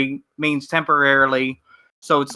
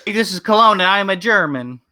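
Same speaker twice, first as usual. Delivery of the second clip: mock German accent; 4 semitones higher than usual. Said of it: "do your German voice".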